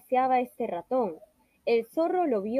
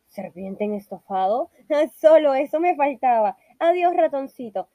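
snake laughs in alarm, louder; nervous laugh; 6 dB louder than usual. Acted. The snake nervously laughs before fleeing the mouse. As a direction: laugh it off and hurry away.

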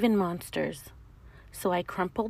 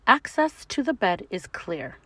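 teacher monster; 4 semitones higher, 5 dB louder than usual. Acted. Teacher monster asks class.

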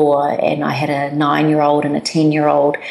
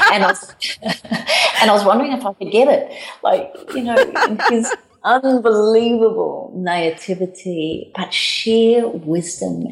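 talking through real laughter, pitched higher; laughing; 6 semitones higher than usual. Real, not acted. Mother telling the host about her son, laughing while speaking. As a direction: let the laugh spill into the words.

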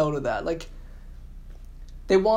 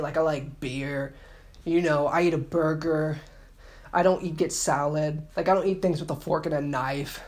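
mock cool girl. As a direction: drag it out like a try-hard one of the guys. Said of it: "they wanna talk like that".

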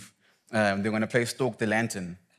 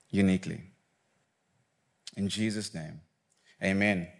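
prayer; 2 semitones lower than usual. Real, not acted. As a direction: pray gently, pausing between phrases. Leads an opening prayer.

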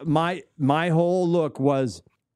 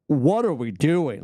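slow, punched mock outrage; emphatic all caps; slower than usual. Host imitating Adam's slow all-caps outrage. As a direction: hammer each word like all caps. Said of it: "all caps, emphatic energy".

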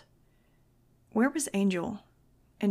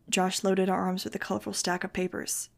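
ordinary delivery, nothing marked

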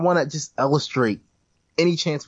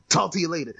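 laughing mumble; 4 semitones higher, faster than usual. Retold or imitated. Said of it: "Mushmouth from, uh, Fat Albert".

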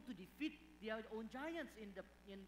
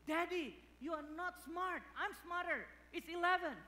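put-on higher, cocky little boy voice; bratty kid voice; 9 semitones higher, 5 dB louder than usual. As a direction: talk back like a smug child. Cheeky son talking back.

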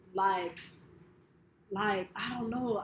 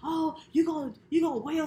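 higher, mocking tease; imitating friends teasing; 8 semitones higher, 3 dB louder than usual. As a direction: rib her about crying. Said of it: "everybody was like".

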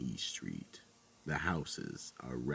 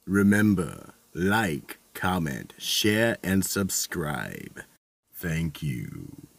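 horror host; 6 dB louder than usual. Acted. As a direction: sign off like a creepy horror host.

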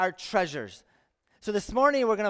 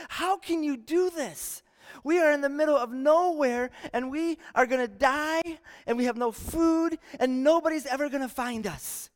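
frantic outburst; 6 semitones higher than usual. Acted. Wakes his sleeping buddy, upset.

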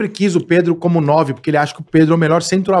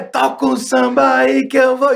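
put-on drunk party voice; 5 semitones higher, much slower than usual. Retold drunk night out quote.

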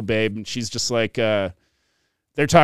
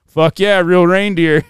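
loud, higher mock enthusiasm; gung-ho retold reply; 5 semitones higher, 6 dB louder than usual. Crew eagerly confirming real reindeer to the performer, gung-ho. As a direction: play an all-in, eager yes.

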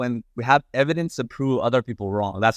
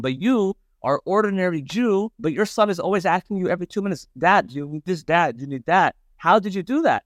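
lightly voiced jealous professor, pitched higher; a hint of an indignant academic demanding answers; 7 semitones higher than usual. Professor on the plane, asking the rabbi jealously, lightly voiced. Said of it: "He's like".

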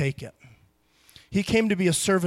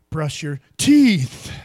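put-on slow, loud command to a child; slow, firm bedtime order; stern parent; 3 semitones lower, 7 dB louder, much slower than usual. Shown as a demonstration. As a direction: order the kids to brush, word by word. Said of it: "That's how I talk to my kids".

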